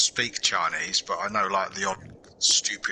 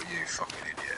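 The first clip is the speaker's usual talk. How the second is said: a muttered curse, softer and lower; whispered insult; 4 semitones lower, 10 dB quieter than usual. Retold or imitated. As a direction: whisper the insult like a thought kept to yourself. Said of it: "I just thought".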